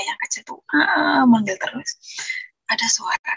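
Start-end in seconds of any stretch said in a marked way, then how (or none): 0.7-1.2 drawn-out mock whining cry; imitated dog whine. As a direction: imitate a small dog crying out, slowly. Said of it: "anjingnya nangis ya". (tiruan rengekan anjing kecil)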